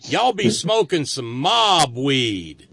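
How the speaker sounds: put-on Russian accent, slow; drawled Russian accent. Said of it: "can you do the Russian accent".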